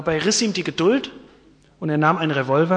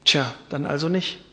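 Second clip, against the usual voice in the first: sadly; 3 semitones lower, 5 dB quieter than usual. Acted. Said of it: "Mit traurigem Herzen".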